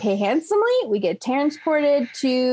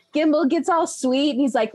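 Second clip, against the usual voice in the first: normal talking voice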